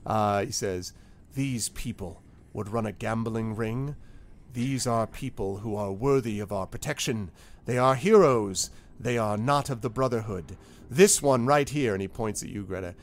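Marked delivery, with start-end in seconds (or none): 1.3-11.9 measured, declamatory defence with weighty emphasis; lightly theatrical orator vouching for friends; impassioned defender. Acted. Newcomer defends heroes before guards.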